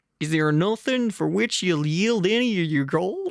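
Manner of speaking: silly, comic cartoon character delivery. Reading a story aloud, voicing Bard asking Thorin about gold: sounding like Goofy. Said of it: "Now he just sounds like Goofy".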